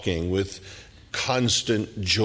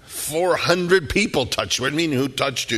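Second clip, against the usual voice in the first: high, mocking disbelief, much higher; exasperated Peter; 5 semitones higher, 4 dB louder than usual. Peter scoffs at Jesus asking who touched him, incredulous. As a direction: scoff like it's obvious. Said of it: "Peter goes".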